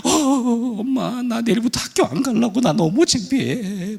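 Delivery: high, wailing mock sobs; bawling child. Daughter crying to mom about school, acted bawling. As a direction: wail the words, dragging out the last one. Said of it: "그 아이가 엉엉 울기 시작합니다".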